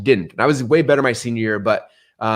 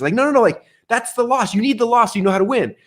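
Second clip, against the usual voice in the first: emphatic insistence; 11 semitones higher than usual. Real, not acted. Rejecting quitters' view emphatically.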